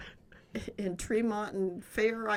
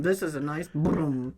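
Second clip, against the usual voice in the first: put-on slow toddler babble; 4 dB louder, slower than usual. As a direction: say it like a toddler admiring a bumper.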